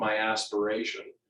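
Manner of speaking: ordinary talk, nothing marked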